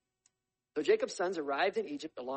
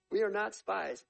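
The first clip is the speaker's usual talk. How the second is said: protesting; 6 semitones higher, 7 dB louder, slower than usual. A narrator's reading. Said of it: "brothers protesting".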